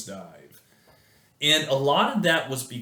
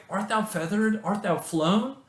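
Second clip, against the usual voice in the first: higher anxious mother bird calling after her chick; a mother bird searching for her fledgling, higher and anxious; worried mother bird; 7 semitones higher than usual. Acted. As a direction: call out like a fretting mother bird, pitched up. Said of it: "she's like".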